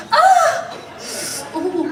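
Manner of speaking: high squealing "Ah! Ooh." moan; feminine moan. Retold or imitated. Comic retelling of a man's squeal during sex, high mock moan. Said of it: "and he said".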